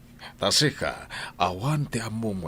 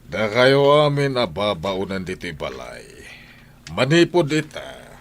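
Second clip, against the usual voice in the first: loud, high angry decree; angry shout; 5 semitones higher, 7 dB louder than usual. Acted. Husband shouting at the household about wages. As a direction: lay down the law furiously. Declaring servants unpaid from now.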